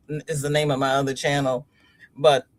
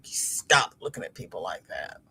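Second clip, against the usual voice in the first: scolding daughter; 10 semitones lower, 7 dB quieter than usual. Retold or imitated. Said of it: "and she like".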